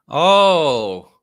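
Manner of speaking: high, loud burst of laughter; delighted laugh. Real, not acted. Gleeful laugh as the next car comes up. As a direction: laugh with glee at the chance to trash it.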